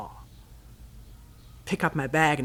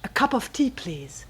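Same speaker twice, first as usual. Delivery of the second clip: calling out; 6 semitones higher than usual. Retold or imitated. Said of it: "I call".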